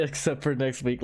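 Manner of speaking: teasing repeat of his words; mocking echo. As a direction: parrot it back with a grin. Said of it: "Because of the".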